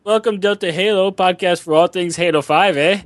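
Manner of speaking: high-pitched mock Canadian accent. Host redoing the podcast intro on request, Canadian accent. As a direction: play up the Canadian, sing-song and high. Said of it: "but with a Canadian accent".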